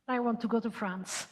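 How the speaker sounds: laughing. Real, not acted. Host jokes, laughing while announcing.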